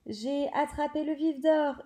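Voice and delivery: the Seeker holding up the ball, triumphant shout. Acted. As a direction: cry out the catch in triumph. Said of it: "hurla, hurla-t-il".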